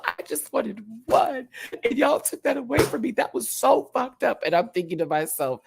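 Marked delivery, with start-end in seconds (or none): 0.0-4.4 imitating Johnny. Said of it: "Then we have him as confessional".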